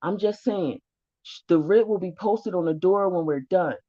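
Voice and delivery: put-on suddenly timid like a scolded kid; meek kid tone. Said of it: "go all the way down to the tone of a kid".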